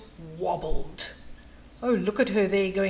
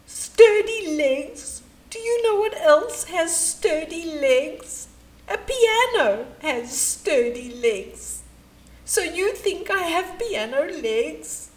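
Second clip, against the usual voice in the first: higher, louder aggrieved whine; offended whine; 5 semitones higher, 3 dB louder than usual. Acted. Hippo taking offence at the compliment, whining high. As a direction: sound wounded and indignant.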